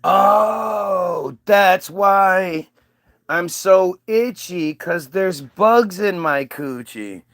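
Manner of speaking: slow amazed realization; dawning shock, drawn out; slow stunned revelation; Eve realizing. Retold or imitated. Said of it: "comes back down and goes".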